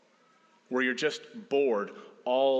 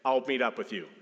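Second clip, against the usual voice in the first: higher, pleading-polite request; 6 semitones higher than usual. Acted. Jesus asking disciples to cross the lake, polite request. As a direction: ask it firmly but politely, starting high. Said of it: "suggestion turn into a request".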